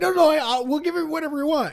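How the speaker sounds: high, hurried mock pleading; imitating someone begging desperately. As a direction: cave in with a squeaky, hammed-up plea. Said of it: "begging him".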